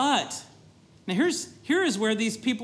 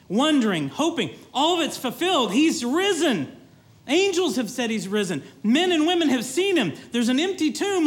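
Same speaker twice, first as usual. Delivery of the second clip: higher and louder, bursting with joy; joyful excitement; 5 semitones higher, 4 dB louder than usual. Acted. Preacher voicing the disciples' joy at the empty tomb, excited. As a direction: shout the good news like it can't be any better.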